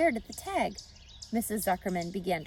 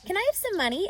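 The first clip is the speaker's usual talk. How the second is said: put-on eager girl; 11 semitones higher, 5 dB louder, much faster than usual. A narrator's reading. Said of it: "asked Fern".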